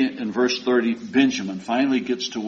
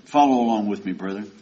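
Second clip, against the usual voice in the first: ordinary delivery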